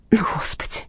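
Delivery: soft unvoiced whisper of dismay; muttering. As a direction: whisper it to yourself, scared. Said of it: "бормотала Инга". (испуганный шёпот)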